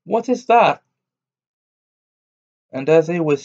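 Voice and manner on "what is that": high, startled question; a surprised tailor crying out at a tower; astonished cry. A narrator's reading. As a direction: gasp it out in wonder. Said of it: "cried the tailor".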